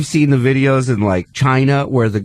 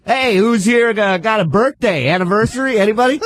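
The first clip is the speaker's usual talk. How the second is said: club comic; 7 semitones higher than usual. Retold or imitated. Comic playing to laughing kids on the train, crowd-work voice. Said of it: "the comic in me's like".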